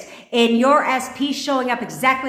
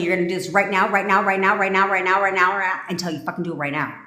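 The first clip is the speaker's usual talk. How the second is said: hammed-up telling-off, relentless repeats; mock rant at ex. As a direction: pretend to tell him off, insisting. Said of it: "That's end rant".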